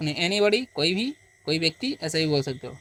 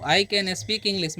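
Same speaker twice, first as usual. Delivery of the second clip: धीमा स्पष्ट उच्चारण; much slower than usual. Shown as a demonstration. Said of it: "उदाहरण सिखाते हुए".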